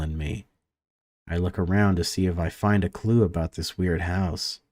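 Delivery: even, measured read-aloud of game text; story narration. A narrator's reading. Gamer reads a conservatory scene to viewers, story narration. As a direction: narrate it evenly, pausing between sentences.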